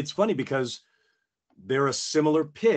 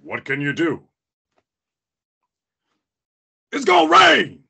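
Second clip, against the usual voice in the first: Ollie; 3 semitones higher, 8 dB louder than usual. Pretend. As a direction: start contained, then holler it out. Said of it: "Ollie, you really".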